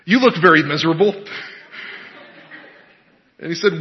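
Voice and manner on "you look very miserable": preacher singling someone out. Acted. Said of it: "for someone to pick on".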